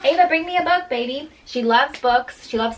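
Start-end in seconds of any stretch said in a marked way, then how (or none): 0.0-1.3 raised, high call across the room. Real, not acted. Mom calls her toddler to bring a book, raised high call. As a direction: call the little one over, bright and loud.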